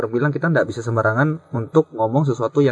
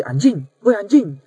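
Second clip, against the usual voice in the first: demo call; 6 semitones higher, slower than usual. Shown as a demonstration. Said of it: "dengan intonasi yang sama".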